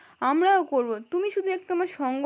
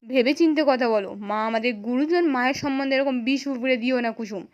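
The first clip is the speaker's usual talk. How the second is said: firm, louder rebuke to his wife; a husband sternly warning his wife, louder; angry scolding; 4 dB louder than usual. Retold or imitated. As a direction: scold her, voice rising in anger. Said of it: "রেগে গিয়ে বলছে".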